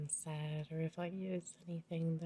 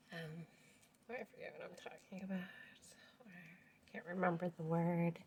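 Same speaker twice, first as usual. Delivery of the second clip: whispering. Real, not acted. Mom whispering to camera so the kids don't hear. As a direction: keep it hushed, talking only to the camera.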